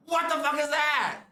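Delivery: surprised outburst. Retold or imitated. Masseur reacts to her back.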